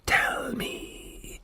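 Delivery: soft, silky whispered menace; smooth whisper. A narrator's reading. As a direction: whisper it smoothly, gently threatening. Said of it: "he whispered smoothly".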